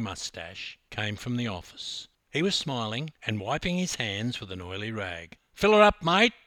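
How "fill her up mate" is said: loud cheerful call to the attendant; shouting across the forecourt. Retold or imitated. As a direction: call it out big and hearty. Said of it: "I shouted".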